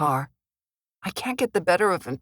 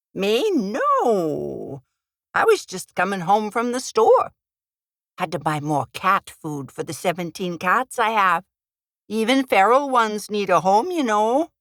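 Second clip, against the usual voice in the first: put-on Minnesota accent; 2 semitones higher than usual. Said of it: "I put on a Minnesota accent".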